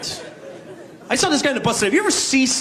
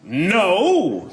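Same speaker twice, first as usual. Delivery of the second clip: superhero refusal; 6 semitones higher than usual. Acted. Superhero turning down a hooker, firm heroic no. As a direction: refuse like a square-jawed hero. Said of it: "A superhero being propositioned by a hooker".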